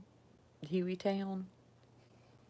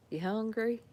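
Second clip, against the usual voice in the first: acted Southern question; 5 semitones higher than usual. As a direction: ask it with a lilting Southern twang. Acting out a Southern exchange.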